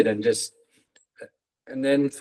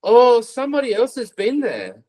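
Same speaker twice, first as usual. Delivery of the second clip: relieved laughing; 8 semitones higher than usual. Retold or imitated. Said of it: "I just pissed myself laughing because I was like".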